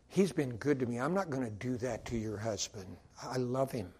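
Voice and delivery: gently but firmly say no out of loyalty; sincere refusal. Retold or imitated. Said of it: "And he says".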